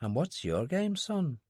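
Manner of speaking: Dylan murmurs to himself at the bar; murmured. A narrator's reading. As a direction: mutter it under your breath. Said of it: "Dylan murmured".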